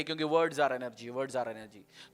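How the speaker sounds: quiet drawn-out words are energy; slow emphasis. Acted. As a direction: drop low and slow. Preacher stresses key phrase.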